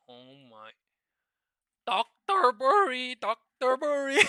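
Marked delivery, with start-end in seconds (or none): 1.8-4.2 excited shout. Real, not acted. Trader shouting at a single red candle, high loud cry. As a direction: call the name out in triumph.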